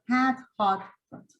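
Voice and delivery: "Hat" spread, "hot" open, the last "hot" lax; three vowel demo. Shown as a demonstration. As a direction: model the three vowels for teachers. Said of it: "we should know the difference, like".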